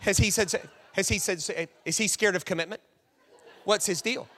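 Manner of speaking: quick, nosy chatter; gossiping friends. Retold or imitated. Imitating Pam's friends gossiping, lightly voiced and quick. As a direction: pester her about the boyfriend. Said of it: "Pam's friends are like".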